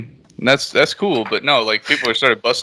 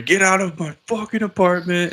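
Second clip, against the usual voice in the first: mock girly scream; 7 semitones higher than usual. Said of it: "shouting like little girls".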